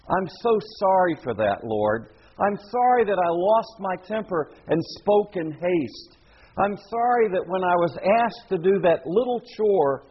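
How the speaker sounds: a hint of a sorry, pleading prayer; contrite prayer. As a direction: voice a penitent confessing to God. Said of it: "you're speaking as a Christian now".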